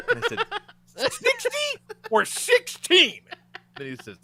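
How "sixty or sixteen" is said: very high, drawn-out, slow disbelief; incredulous question. Retold or imitated. Guest checking the price in shock: high, slow, incredulous. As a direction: stretch every syllable in shock.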